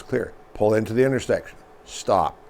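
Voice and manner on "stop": ordinary talk, nothing marked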